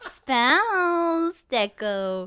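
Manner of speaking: slow giggling tease; laughing through the words. Real, not acted. Teasing friend, giggling.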